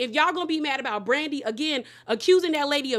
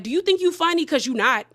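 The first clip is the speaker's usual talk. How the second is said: sassy put-down; 4 semitones higher, 4 dB louder than usual. Retold or imitated. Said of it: "looked her in her face and was like".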